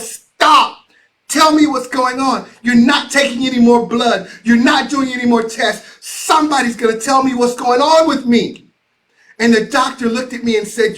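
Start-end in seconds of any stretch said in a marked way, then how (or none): 0.0-8.7 loud, high shouting demand; a patient shouting at the hospital staff to stop; yelled. Retold or imitated. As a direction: yell it out, fed up and insistent. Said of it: "I just yelled".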